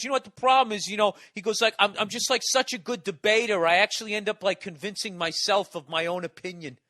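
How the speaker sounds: lightly mock the cocky guy bragging; mild hammed-up arrogance; imitating arrogant host. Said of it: "And he goes".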